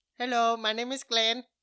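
slight put-on Indian accent. Trying out a voice for a new character, Glenn with slight Indian accent. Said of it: "He sounds a little Indian".

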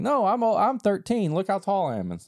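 put-on very high, giggly, laughing sing-song. Retelling how a lady asked a nine-year-old's age, imitating Dash laughing. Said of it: "And Dash is laughing, going".

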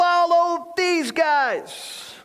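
play-acted very high maniac scream, top of lungs. Mocking her delivery, imitating her screaming like a maniac. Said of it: "screaming like a maniac at the top of her lungs".

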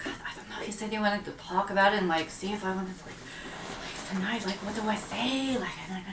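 soft muttering under the breath. Voicing a character talking to herself outside the tavern: muttering under her breath. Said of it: "she's literally just, like, muttering under her breath".

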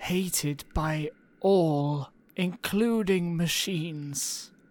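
creepy put-on cartoon voice. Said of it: "It's very salad fingers".

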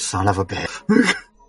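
acted mutter, under the breath. Retelling what a character said, muttered under her breath. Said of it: "Like, under her breath".

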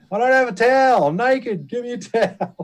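yelling out, voice very high. Retelling hearing Corin without a towel from the hotel corridor, imitating Corin yelling. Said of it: "we could hear Corin yelling out".

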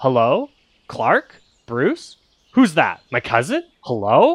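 odd parrot voice copying two different voices. Voicing a creature that parrots two people's voices: weird parrot-like mimicking voice. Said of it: "almost like a parrot trying to mimic them".

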